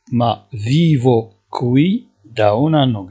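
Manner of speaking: each syllable drawn out, slowly; slow dictation. Shown as a demonstration. Teacher to Moroccan students, slowly dictating Italian. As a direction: spell it out slowly for learners. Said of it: "teacher repeating passenger line".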